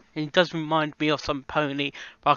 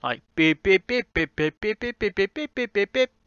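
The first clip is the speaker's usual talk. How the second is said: imitated dial tones; 4 semitones higher than usual. Shown as a demonstration. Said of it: "D F tones in there, like beep".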